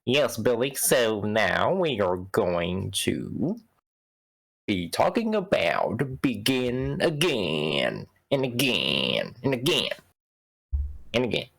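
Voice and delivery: slow, drawn-out fake French accent; mock-French announcement, halting. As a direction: stretch it out in a bad French accent. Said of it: "offensive accent that I just pulled off".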